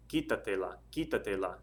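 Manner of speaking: "quítatela" stressed on the first syllable; stress on QUÍ. Shown as a demonstration. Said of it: "Stress over the I".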